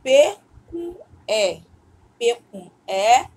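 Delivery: P com E, slow and loud, every letter stressed; slow spelled-out letters. Shown as a demonstration. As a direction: spell P com E slowly for the class. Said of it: "agora é".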